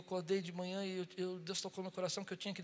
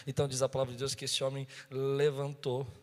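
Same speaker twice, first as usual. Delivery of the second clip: ordinary talk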